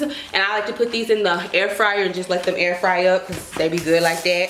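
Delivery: slangy street voice; slangy hood talk. Real, not acted. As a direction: lean into the slang. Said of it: "talking like the hood rat".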